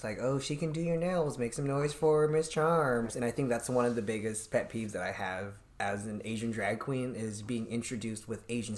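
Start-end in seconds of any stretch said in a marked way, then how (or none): 0.2-3.1 higher, slow mocking emcee line; mock host jab. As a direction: parrot the host's cheap Asian joke. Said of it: "they'll make different Asian jokes".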